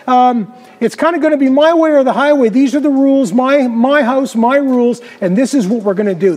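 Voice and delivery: mildly overbearing, brooking no argument; pushy and strong. Acted. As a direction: lay down the law as the boss of the house. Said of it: "And I'm kinda strong. I push forward".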